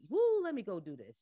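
loud, hammed-up cheer; mock the gung-ho volunteer; mock eagerness. The speaker as he is not, mock excited cheer. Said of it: "I'm not really like".

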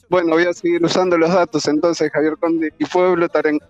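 muffled through a face mask; talking behind a mask. Real, not acted. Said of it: "Se me dificulta hablar con el barbijo".

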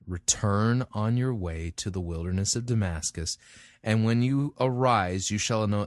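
measured, emphatic Bible reading; solemn public reading of scripture. Acted. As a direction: read the passage aloud with deliberate weight. Reads scripture aloud.

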